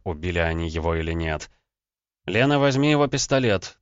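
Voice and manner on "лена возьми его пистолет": louder, higher firm command. Acted. Husband ordering wife to take the gun, firm and louder. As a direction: give the order without doubt. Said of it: "твёрдо произнёс я".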